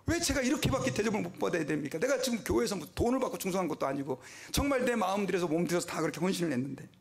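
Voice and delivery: aggrieved prayer. Retold or imitated. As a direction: cry out to God, stung and wronged, a touch of tears. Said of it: "하나님 앞에 너무 막 서러운 거예요".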